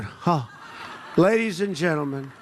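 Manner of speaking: a short laugh, then "Ladies and gentlemen" said through it; mock the anchor chuckling as he starts; laughing announcer. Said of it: "as he's going".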